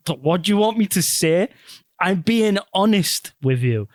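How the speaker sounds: retold exasperation. Acted husband's exasperated self-defence.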